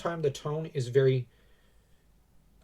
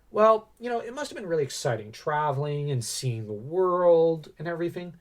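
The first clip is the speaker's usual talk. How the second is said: feminine positive; 3 semitones higher than usual. Retold or imitated. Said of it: "in a very feminine way and goes".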